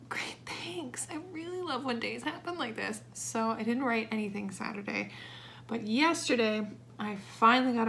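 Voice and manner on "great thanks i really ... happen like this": higher, softer sarcastic whisper; mock-grateful sarcasm under the breath. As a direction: say it with dry fake cheer. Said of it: "And I was like".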